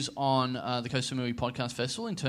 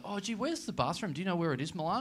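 mock innocent; 3 semitones higher, 6 dB quieter than usual. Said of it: "I sort of say".

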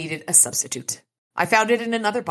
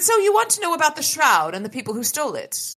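high sprite voice; 10 semitones higher than usual. Acted. Oracle sprite voice.

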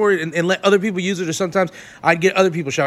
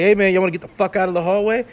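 rude attitude; faster than usual. Retold or imitated. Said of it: "this dude gets an attitude".

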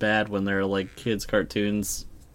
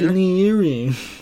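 imitating Mr. Krabs; 7 semitones higher, 3 dB louder, slower than usual. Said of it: "The way he says it".

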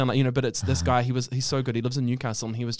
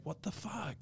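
mock whisper; 3 semitones higher, 18 dB quieter, slower than usual. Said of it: "you're just like".

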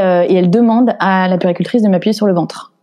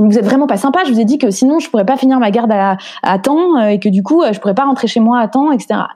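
mock scolding midwife; 3 semitones higher than usual. Midwife scolding, raised pitch.

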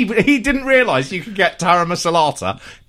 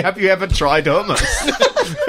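slow, laughing mock question; mock interviewer; slower than usual. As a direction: tease it out slowly while laughing. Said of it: "Which is a funny thing to ask".

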